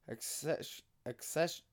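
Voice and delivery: stoned word stumble. Real, not acted. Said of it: "I got stoned before this".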